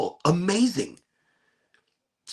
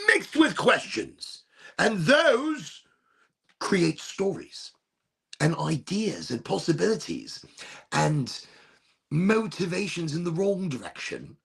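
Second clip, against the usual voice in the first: put-on English accent; 3 semitones higher than usual. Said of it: "went into an English accent".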